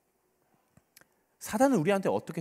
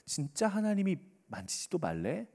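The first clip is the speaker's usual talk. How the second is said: softer insinuating question, rising end; sly tempter; 5 dB quieter than usual. Acted. Satan questioning Eve about God's word, slyly. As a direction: quietly plant doubt in the listener. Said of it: "사단은 이렇게 이야기를 해요".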